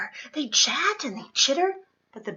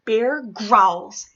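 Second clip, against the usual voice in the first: growling narration; 8 dB louder than usual. A narrator's reading. Bear wakes angry.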